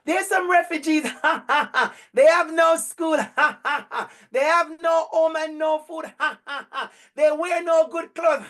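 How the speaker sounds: hammed-up giggling between each line; mock laughing. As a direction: play the callous child who laughs at it. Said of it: "I would worry if she come home laughing".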